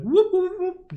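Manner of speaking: high playful whoops; whoop whoop sneaking noise. Retold or imitated. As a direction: chirp it like a quick sneak. Mimicking sneaking past guards.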